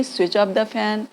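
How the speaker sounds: very slow, gentle request to mom; slow polite request. Shown as a demonstration. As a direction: ask mom slowly and politely. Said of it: "बड़ों को बोल रहे हैं".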